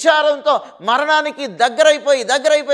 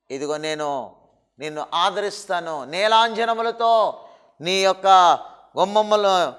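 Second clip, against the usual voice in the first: God speaking tenderly; 3 semitones lower than usual. Acted. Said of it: "దేవుడు అంటున్నాడు".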